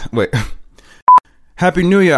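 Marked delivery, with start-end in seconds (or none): 1.6-2.2 high, loud "Happy New Year"; big theatrical cheer; performed character greeting. Acted. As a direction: sing out the greeting, pitched up.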